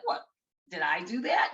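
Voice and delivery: a light nasal-free nod to Urkel, mock innocent; lightly imitating Steve Urkel's catchphrase. Mom caught with the underpants, mock Urkel innocence. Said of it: "the Steve Urkel thing".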